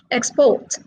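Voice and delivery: "Export" said ex-PORT; stress on second syllable. Shown as a demonstration. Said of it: "are stressed on the second syllable".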